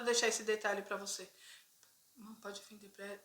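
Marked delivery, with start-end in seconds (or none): 2.2-3.2 hushed plea. Retold or imitated. Brother quietly asks seller.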